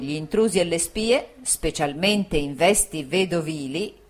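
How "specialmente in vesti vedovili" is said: slowed, weighted reading of the whole phrase "specialmente in vesti vedovili"; underlined phrase. A narrator's reading. Narrator reading the landlady's letter, stressing the underlined phrase. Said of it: "questa frase era sottolineata".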